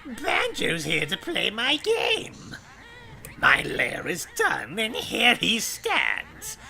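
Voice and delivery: lightly voiced rhyming witch; a hint of cackling Gruntilda; Grunty witch voice. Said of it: "it's Hype as Grunty".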